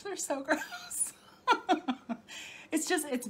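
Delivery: slow, drawn-out disgust broken by a laugh. Real, not acted. Telling viewers cicadas are gross, laughing disgust.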